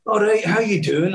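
light imitation of a comedian saying hello; Billy Connolly. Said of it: "it's Billy Connolly".

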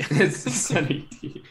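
slow, goofy cartoon-bear sound; Yogi Bear-like voice. Real, not acted. Co-host echoing a drink brand, sounding like Yogi Bear. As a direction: drawl it a little like a cartoon bear. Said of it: "Why'd you sound like Yogi Bear?".

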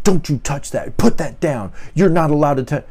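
mild mock scold of a child, lightly voiced; a touch of a stern adult snapping at a kid; harsh scolding. Adult scolding a child who touched a statue, mildly harsh. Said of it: "that scowl over their face and that harsh tone".

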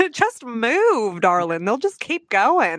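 baffled mock-Southern lady; put-on Southern twang with swooping tune; Southern accent. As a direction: play it sweetly puzzled Southern. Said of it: "Southern accents".

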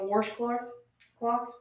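washcloth with an added R; dad's pronunciation. Shown as a demonstration. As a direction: say washcloth as WARSH-cloth. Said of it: "but my dad does".

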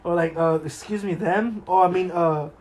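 giggling, flustered pretend reading; laughing mock confusion. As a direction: stumble through names while laughing. Mocking pronoun name-tag confusion.

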